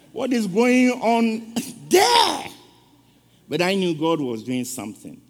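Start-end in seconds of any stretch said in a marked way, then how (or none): 0.1-2.5 mock call, slowed, breaking into a laugh. Man behind him calls out, laughing at the crying. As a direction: act out the man calling out through laughter.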